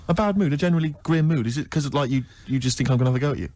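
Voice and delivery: normal talking voice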